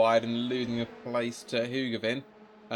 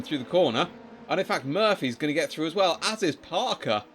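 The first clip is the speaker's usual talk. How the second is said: excited live race call, rising; motorsport commentator; 2 semitones higher than usual. Real, not acted. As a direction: call the moves as they unfold.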